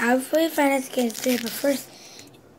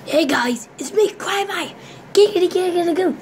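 high loud giggity; sleazy cartoon neighbor voice; Quagmire voice; 6 semitones higher, 5 dB louder than usual. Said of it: "I'm gonna do Quagmire".

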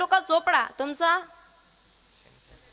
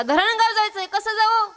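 raised, higher-pitched asking voice; calling out a question; 5 semitones higher than usual. Retold or imitated. Asking a man the way to Dharangaon, called out higher. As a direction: call it out to a passer-by. Calls to stranger for directions.

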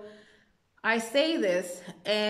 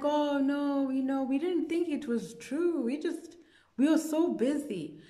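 making excuses; 7 semitones higher than usual. Retold or imitated. Townspeople making excuses in retold dream.

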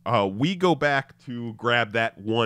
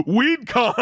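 laughing; 11 semitones higher, 7 dB louder than usual. Real, not acted. Laughing at own mishearing.

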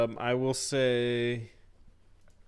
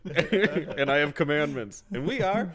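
slow, laughing grand announcement; giggling fake sermon; laughing mock proclamation; 3 semitones higher than usual. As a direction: proclaim it like a joke prophet, cracking up.

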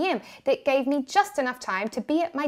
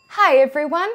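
sweetly; 4 semitones higher, 7 dB louder than usual. Retold or imitated. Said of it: "she said really sweetly".

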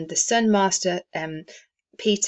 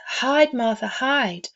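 put-on urgent children's whisper-game; 6 semitones higher, slower than usual. A narrator's reading. Young Cratchits urging Martha to hide, playfully urgent. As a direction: hurry her into hiding like giggling kids. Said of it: "cried the two young Cratchits".

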